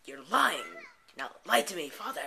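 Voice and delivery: soap-opera confrontation, voice lifted; melodramatic accusation. Acted. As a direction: accuse him in a hammed-up shout. Acted argument with father.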